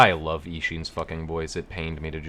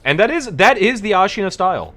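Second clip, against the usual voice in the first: dramatic announcer; 13 semitones higher, 11 dB louder than usual. Pretend. Announcing the Ashina style.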